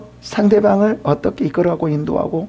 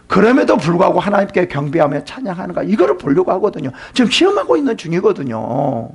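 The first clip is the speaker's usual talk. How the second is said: normal talking voice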